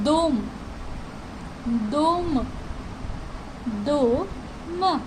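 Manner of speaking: "dome" said slowly with the first vowel stressed, like "dom"; model pronunciation. Shown as a demonstration. Teacher models "dome" for Russian learners, stress on the O. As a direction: say "dome" with the weight on the O. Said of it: "here you can see".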